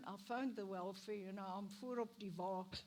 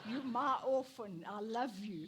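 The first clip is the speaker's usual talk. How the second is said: loving reply; 8 dB louder than usual. Retold or imitated. Voicing her own tender reply.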